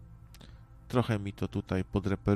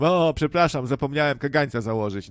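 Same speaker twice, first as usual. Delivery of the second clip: loud, pitched-up fake apology; mock apology; 4 semitones higher, 6 dB louder than usual. Biter excusing himself to the neighbour, mock apology. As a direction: apologise loudly with put-on innocence. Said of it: "i powiem".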